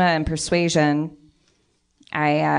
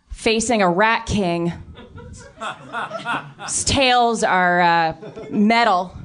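threatening; 3 semitones higher than usual. Acted. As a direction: lean in and threaten him. Threatening junkie NPC.

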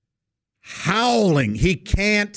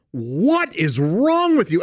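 astonished; 3 semitones higher, slower than usual. Retold or imitated. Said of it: "looking at me with astonishment, going".

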